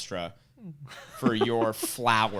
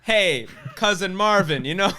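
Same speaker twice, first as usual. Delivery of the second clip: Marvin Berry; 6 semitones higher, 6 dB louder than usual. Retold or imitated. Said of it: "like in Back to the Future".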